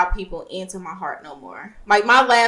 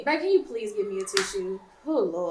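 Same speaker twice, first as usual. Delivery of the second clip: trying not to cry; shaky, teary voice; holding back tears; 7 dB quieter than usual. Real, not acted. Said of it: "I'm trying not to cry".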